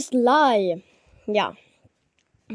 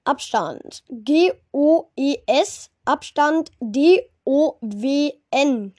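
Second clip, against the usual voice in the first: spelling it out slowly; slower than usual. Shown as a demonstration. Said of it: "Ich buchstabiere es noch einmal".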